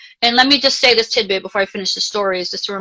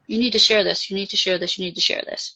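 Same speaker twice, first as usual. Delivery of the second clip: a quiet insistent urging, fading to a breath; fading inner voice; 6 dB quieter than usual. Retold or imitated. The dead brother pressing her to share this, fading to a whisper. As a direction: repeat it softer each time until it's almost unvoiced. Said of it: "I could feel him there".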